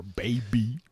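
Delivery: whispered tag; a cheeky whisper to end the boast. Real, not acted. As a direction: breathe the word out unvoiced.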